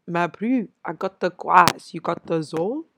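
lightly put-on Joburg accent. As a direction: put on your best Joburg accent, playfully. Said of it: "In my best Joburg accent".

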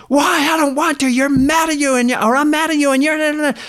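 hammed-up, high-pitched whiny outburst; upset daughter. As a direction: imitate a kid ranting in protest. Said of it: "she was really upset like that".

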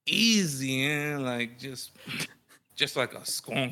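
put-on a light Cholo Mexican accent, slow and laughing; a hint of a Cholo Mexican voice. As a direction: drawl it like a laid-back Cholo. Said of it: "Cholo Mexican voice".

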